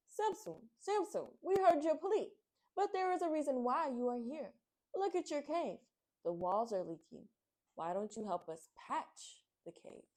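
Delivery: high, lively rabbit voice calling Samson; bright bouncy bunny, calling out; exclaiming rabbit. Acted. Rabbit in the wishing bowl calls out to Samson, high and excited. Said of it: "and exclaimed".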